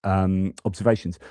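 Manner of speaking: ordinary delivery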